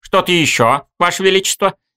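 acid, sneering tone. Kirill replies to the narrator's orders, caustic. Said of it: "язвительно отозвался Кирилл".

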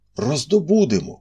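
high, sudden, excited burst of a cry. After a moment's thought, a man slaps his thigh, exclaiming. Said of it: "вигукнув він".

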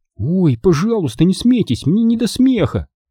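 high, pleading, imploring voice. A nephew answers his uncle, begging. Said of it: "взмолился Чарли".

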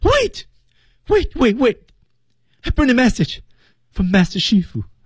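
fearful begging with crying tone. Demonstrating how to deliver a pleading line, fearful pleading with crying tone. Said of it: "带着哭腔的，".

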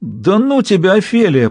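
long high groan. The captain answers the woman who just spoke, groaning. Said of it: "простонал капитан Тенира".

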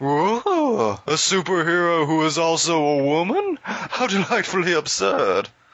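very high voice, slow and drawn out. Joking about a sixties Wonder Woman pilot: Hedonismbot voice. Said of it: "I don't know why I became a hedonism bot".

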